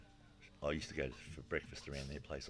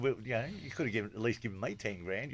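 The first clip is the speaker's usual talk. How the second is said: louder, higher, cheeky; excited cheeky ask; 6 semitones higher, 5 dB louder, faster than usual. Real, not acted. Telling the gambler friend he owed a share, louder and higher. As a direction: push your luck with a grin. Cheeky demand after huge bet.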